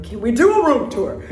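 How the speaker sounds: lively, quick room-tour request; excited question. Real, not acted. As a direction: ask eagerly, in one go.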